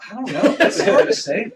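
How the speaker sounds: high, loud laugh through the words. Real, not acted. Laughing at a tough question.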